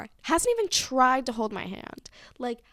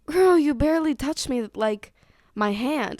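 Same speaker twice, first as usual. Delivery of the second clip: incredulous; 4 semitones higher, 7 dB louder than usual. Retold or imitated. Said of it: "I'm like".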